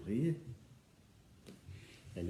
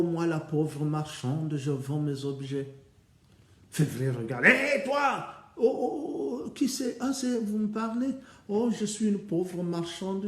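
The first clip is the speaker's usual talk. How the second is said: put-on old merchant woman; 9 semitones higher, 7 dB louder than usual. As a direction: drag out the pitch to sell trinkets. Disguised sister as poor merchant.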